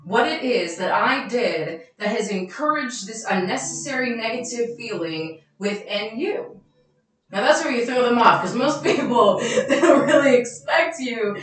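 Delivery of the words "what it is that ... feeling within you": measured and caring, unhurried; calm, understanding reply. Shown as a demonstration. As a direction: talk them down gently, like you mean it. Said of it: "I'm going to say".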